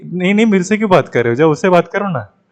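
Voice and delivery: lightly voiced jealous complaint, rushed; jealous sulking partner. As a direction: whine it fast like a possessive lover. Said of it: "बोलेगा या बोलेगी कि".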